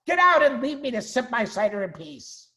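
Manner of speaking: high, loud, scolding; angry shriek. Acted. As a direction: drive the clumsy intruders off. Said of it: "shrieked Rat".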